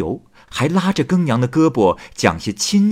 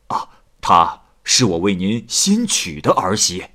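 son reporting; 3 semitones lower than usual. A narrator's reading. Son explains wife's death to mother.

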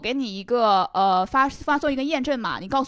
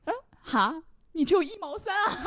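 higher, taunting with a laugh; a scammer's jeering laugh through the words; mocking laugh; 8 semitones higher than usual. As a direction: sneer at how little money there is. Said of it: "他突然嘲笑了我一下".

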